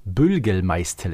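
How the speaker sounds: Bülgelmeistel said slowly, every R turned into an L; mock speech defect. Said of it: "hext sie den beiden quasi einen Sprachfehler an".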